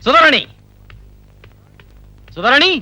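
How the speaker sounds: insistent name-calling. Acted. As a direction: hail someone across the room. Man calls out to Sudharani.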